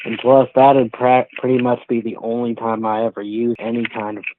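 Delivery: muffled, like through a hand; speaking through covered mic. Real, not acted. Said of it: "it's getting real muffled again".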